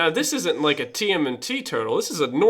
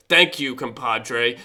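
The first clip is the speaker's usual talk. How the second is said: slow, lower monkey voice; 6 semitones lower, slower than usual. Acted. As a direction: drawl it like a grateful monkey. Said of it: "is like".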